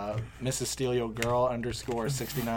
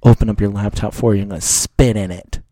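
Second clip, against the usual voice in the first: mock threat; 6 dB louder than usual. Mock threat to hate-mail senders.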